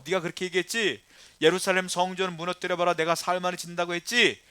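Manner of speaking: acted taunting challenge; scoffing onlooker's accusation; mocking jeer. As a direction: throw the claim back in his face. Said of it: "뭐라고 욕했느냐면".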